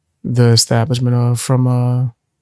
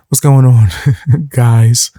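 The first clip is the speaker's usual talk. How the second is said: punchier, louder retake of the greeting; louder intro; 3 dB louder, slower than usual. Shown as a demonstration. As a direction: push the greeting out with energy. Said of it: "start taking more vocal breaks".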